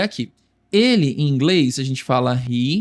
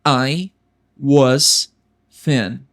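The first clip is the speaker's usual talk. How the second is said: frase em partes; 3 semitones lower, 3 dB louder, much slower than usual. Shown as a demonstration. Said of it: "Como eu digo, eu era magro".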